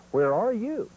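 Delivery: high calling "Where are you?"; calling hen. Shown as a demonstration. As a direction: call it out high like a hen turkey asking. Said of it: "Two perch says".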